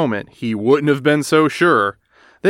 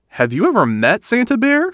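nervous little cub; 9 semitones higher than usual. Acted. Sister asks nervously.

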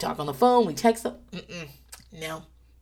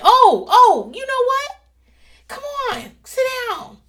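high, sing-song mock sweetness; mock gracious welcome; 6 dB louder than usual. Wife to husband, high mock-sweet invitation to apologize. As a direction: play the gracious queen granting an audience.

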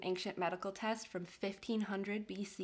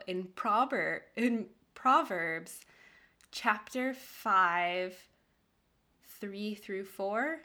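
slow and careful, unsure of the wording; unsure slow reading; 3 dB louder, much slower than usual. Shown as a demonstration. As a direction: read each word slowly, testing it. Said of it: "I think that's right. Is that how you say a Bible thing".

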